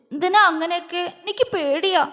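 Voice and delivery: a hint of a sob, understated; lightly voiced tearful fear; whimpering. A narrator's reading. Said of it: "അവള് വിതുമ്പി".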